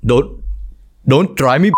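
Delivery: put-on indignant Indian English accent; offended Indian guy pushing back; touchy, defensive Indian accent. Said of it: "Tiếp theo là anh Ấn".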